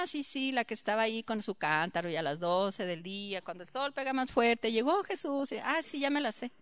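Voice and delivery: mock bored children, muttered; bored mock kids. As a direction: sound like kids who already know it. Voicing bored know-it-all kids.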